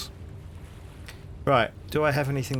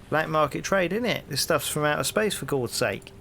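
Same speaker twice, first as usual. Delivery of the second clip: hearty London copper, rising into the question; cheery Cockney policeman greeting a stranger; cockney bobby; 4 semitones higher than usual. Acted. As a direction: play the nosy beat cop on his rounds. Policeman justifies.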